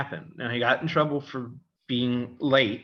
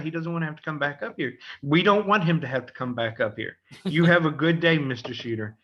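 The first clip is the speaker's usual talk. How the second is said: higher, sing-song sugary greetings with laughter; butter the principal up, grinning; cheeky mock politeness; 4 semitones higher than usual. Boy teasing the principal after dad's visit with sweet mock courtesy.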